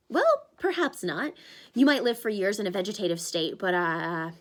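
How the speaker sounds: put-on a panicky young satyr; Grover's voice. Grover, awkward then hurried.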